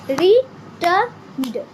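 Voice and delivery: रिटर्न्ड drawn out slowly in two beats; slow syllable demo. Shown as a demonstration. Teacher to pupils, slowly clapping syllables. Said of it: "teacher repeats slowly".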